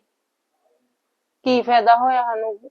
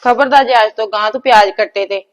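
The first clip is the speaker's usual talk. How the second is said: louder, fussy warning; loud scolding; 2 semitones higher, 7 dB louder than usual. Acted. Mother loudly forbids her daughter to cut onions again. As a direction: forbid it outright, shaken.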